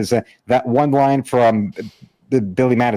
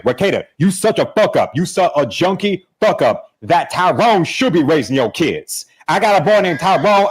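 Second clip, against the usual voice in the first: higher-pitched, animated ranting impersonation; Eric July; 4 semitones higher than usual. Acted. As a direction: rant at a man, then holler for backup, mimicking. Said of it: "Rekieta as July".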